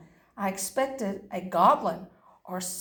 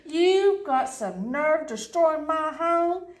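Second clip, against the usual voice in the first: angry scolding; 2 semitones higher, slower than usual. Acted. Angry leprechaun scolding the dog.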